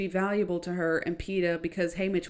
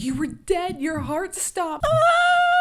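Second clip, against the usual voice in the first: worked up; 10 semitones higher, 4 dB louder, slower than usual. Retold or imitated. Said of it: "She's very worked up and says".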